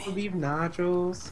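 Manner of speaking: put-on joking accented food order; mock Hispanic accent. Customer ordering in the accent bit, mock Hispanic accent. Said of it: "do a Hispanic accent".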